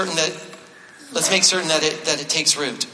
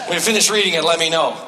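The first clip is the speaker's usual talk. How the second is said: laughing while teasing; faster than usual. Pretend.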